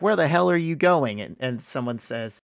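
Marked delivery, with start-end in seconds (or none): 0.0-1.2 pitched-up imitation of affronted executives; acted-out boardroom outrage; mock indignant surprise. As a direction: call after him, put out. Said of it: "they're, like, surprised".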